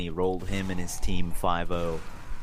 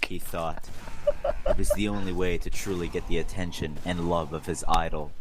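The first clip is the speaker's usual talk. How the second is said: deadpan mock-serious narration; hammed-up fanfic voice; dramatic reading; 3 dB louder than usual. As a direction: read the smut like a novel. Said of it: "Dramatic reading".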